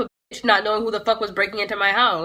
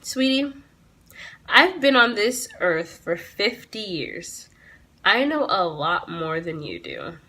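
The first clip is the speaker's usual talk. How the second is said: lightly voiced old officer, slow and lower; condescending old cop; 3 semitones lower, 4 dB quieter, slower than usual. Old officer lectures the teen, slow and condescending. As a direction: talk down to her slowly like a smug old man. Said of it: "he goes".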